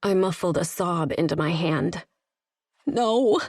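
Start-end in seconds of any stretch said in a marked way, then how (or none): 2.8-3.4 cracking voice, near tears. Acted. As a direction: let the voice crack. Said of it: "My voice cracked".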